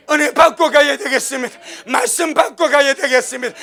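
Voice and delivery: building, loud declaration; rising exhortation. Real, not acted. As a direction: drive it home to the congregation. Climactic sermon exhortation.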